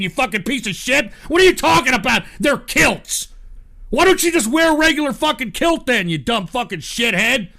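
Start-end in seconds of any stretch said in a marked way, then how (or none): 1.3-3.3 loud disbelief. Real, not acted. Ranting at photo.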